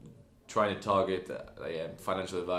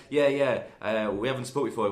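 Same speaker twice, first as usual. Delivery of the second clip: eager; 3 semitones higher, 5 dB louder than usual. Retold or imitated. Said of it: "And I was like".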